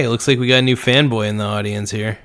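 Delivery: usual speaking voice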